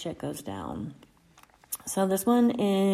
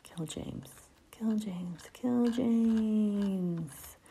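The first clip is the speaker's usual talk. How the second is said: put-on repeating little kid; 3 semitones higher, much slower than usual. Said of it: "went around the house repeating".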